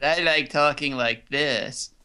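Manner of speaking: slow monotone robot voice. Acted. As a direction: speak flat like a robot. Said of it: "talk in monotone".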